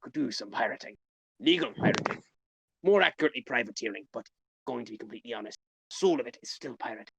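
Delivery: put-on gruff pirate captain accent. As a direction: talk like an old sea pirate. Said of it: "killing my throat to do the pirate voice".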